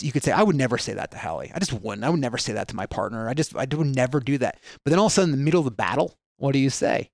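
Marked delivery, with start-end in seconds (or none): 0.3-4.6 lower, softer imagined self-assurance; calm resolve. Retold or imitated. Partner in a good place promising restraint, calm. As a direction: lightly act out someone level-headed. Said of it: "in a state of consciousness or a good place".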